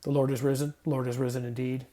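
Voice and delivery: brisk, clipped sign and countersign; quick spy countersign. Shown as a demonstration. Spies trading sign and countersign, quickly. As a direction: pass it like a secret password. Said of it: "like spies giving a sign".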